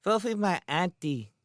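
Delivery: put-on high, childish lisp; sweet lisping small boy. A narrator's reading. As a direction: play an angelic little boy with a lisp. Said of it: "in a sweet lisping voice".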